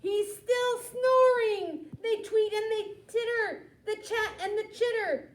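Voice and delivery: high and loud, then quick twittering; excited reading. A narrator's reading. Reading aloud to a child, high excitement. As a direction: squeal it out for the kids.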